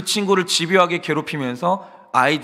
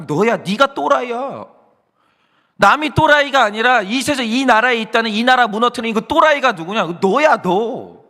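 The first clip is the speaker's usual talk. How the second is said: rising rebuke; 4 semitones higher than usual. Retold or imitated. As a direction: hammer the blame home, slowing at the end. God's accusation acted out.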